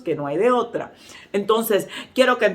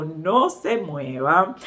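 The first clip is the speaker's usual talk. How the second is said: drawn-out, careful warning; slow, measured re-enacted command; acted slow warning; 3 semitones lower, much slower than usual. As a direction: stretch each word to keep someone still. Warns woman with spider on skirt.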